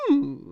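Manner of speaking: high drawn-out "hmm" whimper; Chamberlain's whimper. Retold or imitated. Praising whoever invented Chamberlain's hum, imitated whimper. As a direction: imitate a simpering creature's hum. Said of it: "whoever came up with the".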